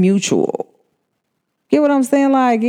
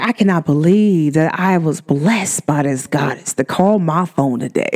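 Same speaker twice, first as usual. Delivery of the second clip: cousin's flattery; 3 semitones lower than usual. Retold or imitated. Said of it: "he's like".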